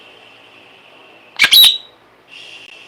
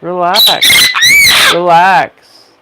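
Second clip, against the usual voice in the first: loud firm scolding; 4 semitones higher, 7 dB louder than usual. Real, not acted. Scolding the screaming bird.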